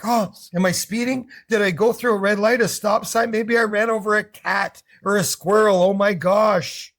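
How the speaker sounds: hammed-up nervous babble; mock panic. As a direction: play a driver freaking out over a cop. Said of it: "Freaking out".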